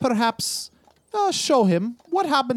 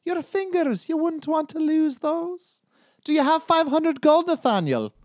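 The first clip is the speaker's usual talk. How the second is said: lightly voiced, higher, sly threat; menacing debt collector; 10 semitones higher than usual. Collector taunting Nathaniel about his fingers, sly menace. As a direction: tease him about losing his fingers.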